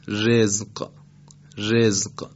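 رزق with a thin r before a clear i; light ra. Shown as a demonstration. Tajweed teacher giving an example, light ra in رزق. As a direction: keep the r of رزق light and fronted. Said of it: "را رو ما نازک ادا بکنیم".

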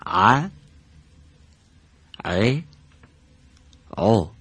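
ع ع او pressed from mid-throat; teacher models ع with vowels; drill the letter ع. Shown as a demonstration.

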